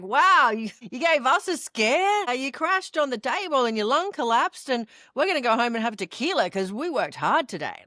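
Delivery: lightly voiced cheerful doctor; upbeat doctors. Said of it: "kind of upbeat and just like".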